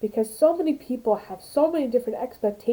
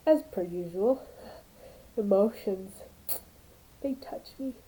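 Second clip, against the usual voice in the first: crying; 5 dB quieter than usual. Real, not acted. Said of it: "I'm crying".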